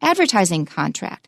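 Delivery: one compound, weight on "Advertising"; teacher's model with "Advertising" accented over "contract"; compound stress. Shown as a demonstration. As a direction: stress "Advertising" and let "contract" drop unstressed. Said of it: "so it is a compound".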